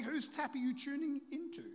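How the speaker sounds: high, projected question to the room; emphatic preaching question. Real, not acted. Preacher putting this morning's question, emphatic and high. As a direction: ask it high and forcefully.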